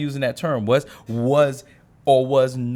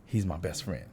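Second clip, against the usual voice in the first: mock claim; 7 semitones lower, 9 dB quieter than usual. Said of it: "but they like".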